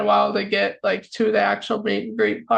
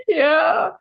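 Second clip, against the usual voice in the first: tearful yes; 5 semitones higher than usual. Retold or imitated. Couldn't get a lot of words out.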